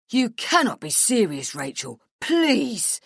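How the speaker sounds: loud, high outburst peaking on the last word; exasperated bellow. A narrator's reading. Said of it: "Chris bellows".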